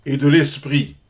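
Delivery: measured verse reading with pauses at line ends; poem recitation. Acted. Lover addressing his unlettered beloved in verse, poem recitation. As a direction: recite it as formal, rhymed love verse.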